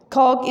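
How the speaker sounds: कॉक with an aspirated k and no l; proper pronunciation. Shown as a demonstration. Teacher stressing the real कॉक pronunciation. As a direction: stress कॉक as the correct form. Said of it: "असल pronunciation है".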